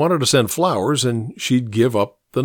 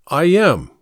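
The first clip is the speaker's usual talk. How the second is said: high, louder, assertive answer; bold, emphatic affirmation; bold reply; 6 semitones higher, 5 dB louder than usual. A narrator's reading. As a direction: declare it with confidence. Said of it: "he replied boldly".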